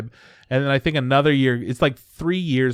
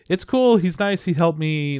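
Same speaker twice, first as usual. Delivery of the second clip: higher, lightly voiced little girl; girl's voice; 5 semitones higher than usual. Retelling the girl defending the spirit, lightly voiced girl. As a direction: chirp it like a happy kid. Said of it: "She's like".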